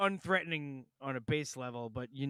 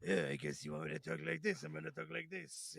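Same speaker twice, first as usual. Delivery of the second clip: a hint of an odd put-on actor voice; lazily mock the actor's improvised line; lightly imitated actor ad-libbing; lightly mocking Jon Voight; 5 dB quieter than usual. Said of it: "him just going".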